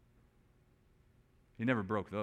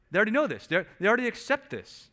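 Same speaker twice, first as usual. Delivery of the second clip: much higher and louder insistence; emphatic high push; 11 semitones higher, 8 dB louder, faster than usual. Acted. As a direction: drive "they already know" home. Preacher presses the point.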